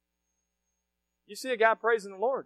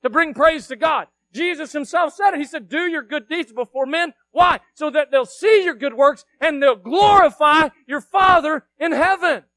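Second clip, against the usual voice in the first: raised, forceful sermon delivery; emphatic preaching; 5 semitones higher, 10 dB louder than usual. Real, not acted. Preacher urging people to bring praise to God, emphatic preaching. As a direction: preach it out with punched key words.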